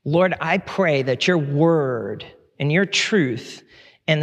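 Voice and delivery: slow, deliberate prayer in short phrases; public prayer. Real, not acted. Pastor praying over his congregation before preaching, slow public prayer. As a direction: pray it slowly, pausing before each petition.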